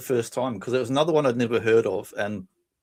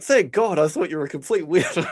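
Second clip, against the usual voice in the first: higher-pitched imitation of a relieved date; retold relief; 4 semitones higher than usual. Date finally learning the truth, mock relief. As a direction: act out blurting relief, half laughing. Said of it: "And she's like".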